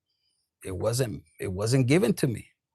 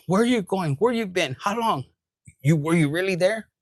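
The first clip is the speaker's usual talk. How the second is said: mock nagging questions, a bit louder; nagging partner; 4 semitones higher, 3 dB louder than usual. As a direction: pester them with questions. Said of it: "they were gonna be nagging".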